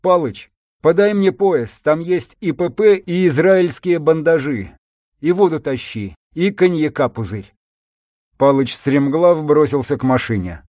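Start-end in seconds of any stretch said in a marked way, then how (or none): 0.0-7.5 urgent call across. Acted. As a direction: call out to a friend. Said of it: "крикнул".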